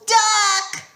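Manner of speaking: high, loud sharp yell. A narrator's reading. Grover warning Percy from the sky, yelling. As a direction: bark the warning from above. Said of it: "Grover yelled".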